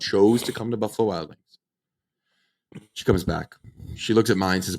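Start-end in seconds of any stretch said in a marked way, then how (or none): 0.0-2.9 slow, mildly irritated retort; agitated. Retold or imitated. Customer to waitress who doubts the ID, a little agitated. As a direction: retell it with a touch of exasperation, drawing the words out. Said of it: "starting to get a little agitated".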